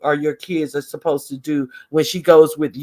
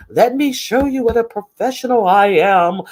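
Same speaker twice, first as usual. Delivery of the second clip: higher, put-on self-important voice; mock professional; 5 semitones higher than usual. Micromanager mimicked showing off professionalism, mocking. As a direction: lightly parody a self-important manager.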